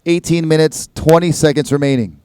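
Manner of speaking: relaxed score read over the PA; easygoing contest announcer voice; laid-back surfer announcer. Acted. Reads out the heat scores.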